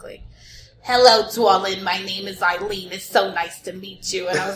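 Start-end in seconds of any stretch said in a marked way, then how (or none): 0.8-4.3 lightly imitated New York coffee-talk lady; Coffee Talk New York mom. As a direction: greet like a New York Jewish mother. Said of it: "like, coffee talk".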